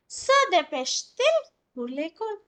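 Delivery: "Se dépêche-t-il pour l'école?" slowly, the t linking clearly; slow model question. Shown as a demonstration. Teacher demonstrates inversion with linking t, slow. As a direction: land on the linking t. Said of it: "टी क्यों आया".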